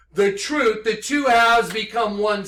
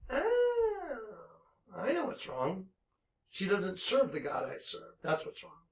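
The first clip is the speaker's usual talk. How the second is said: quiet realisation; 10 dB quieter than usual. Real, not acted. Grim realisation after outburst.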